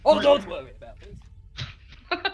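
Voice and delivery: booming arrogant alien overlord. Acted. Overlord reassures mockingly.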